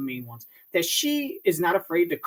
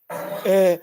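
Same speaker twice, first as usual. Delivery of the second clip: stammering imitation; slower than usual. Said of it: "trying to make shit up".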